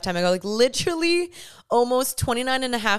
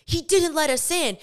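retold indignation; 6 semitones higher than usual. Friend's indignant phone complaint.

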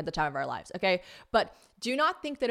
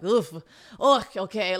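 loud mock groan of reluctance; put-upon taxi driver; 2 semitones higher, 6 dB louder than usual. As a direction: imitate a driver burdened by the fare.

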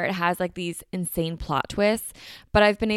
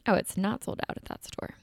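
whispering; 2 semitones higher, 5 dB quieter than usual. Real, not acted. Checks app, aside to self.

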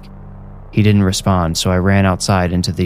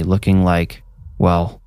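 ordinary delivery

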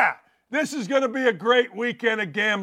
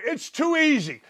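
normal talking voice

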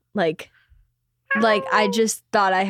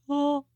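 soft, higher little "oh"; sleepy startled oh; 4 semitones higher, 5 dB quieter than usual. Retold or imitated. Speaker shows how they woke up beside Frankie, soft startled oh. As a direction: softly re-enact waking with an "oh". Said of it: "waking up next to Frankie and being like".

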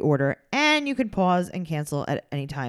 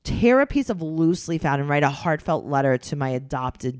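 mock someone amused at themselves; mocking imitation. Mimics Tyler finding lateness funny.

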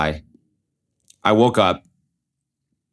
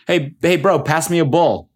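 party bro; 9 semitones higher than usual. Retold or imitated. Voicing a party guy.

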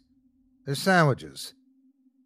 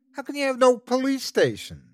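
shouted; 13 semitones higher than usual. Acted. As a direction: shout it in disbelief. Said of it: "Kent shouted".

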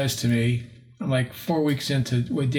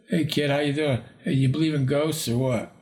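a hint of a gruff old investigator's greeting; casual, offhand "hey kid" with barely a change of voice; lightly voiced Ed; 2 semitones higher than usual. Ghost hunter greeting the new boyfriend, lightly imitated. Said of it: "Like that".

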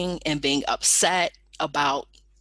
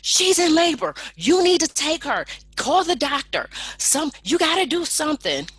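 high, loud demanding yell; pushy yelling friend; 10 semitones higher, 5 dB louder than usual. Retold or imitated. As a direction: demand the nurse act now, loudly. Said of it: "he starts in with her".

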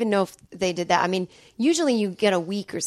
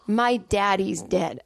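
slow, understated mournful quote; imitating grieving dad; slower than usual. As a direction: deliver dad's news very slowly. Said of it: "looked at me in the eyes and goes".

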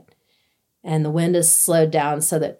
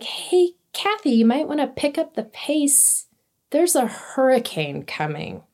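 high, lilting imitation of mom; mom's gentle warning; 7 semitones higher than usual. Mom warning her hiking daughter, high sing-out voice. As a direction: pitch it up, casually breaking bad news.

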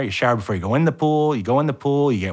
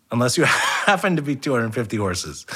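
laughing through the punchline; cracking up mid-line. Real, not acted. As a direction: break into a laugh mid-sentence.

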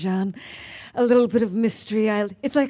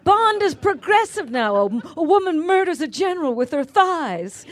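sarcastic; 8 semitones higher, 5 dB louder than usual. Retold or imitated. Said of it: "mock quoting, bigger".

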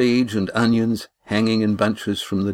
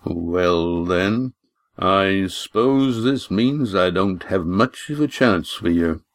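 wry; slower than usual. Acted. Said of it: "interrupted with a wry grin".

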